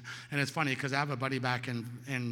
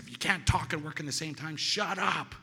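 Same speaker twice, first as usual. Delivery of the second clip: angry outburst; 3 semitones higher, 3 dB louder than usual. Retold or imitated. Fed-up dishwasher to French coworker, angry outburst. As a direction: build to a higher "shut up".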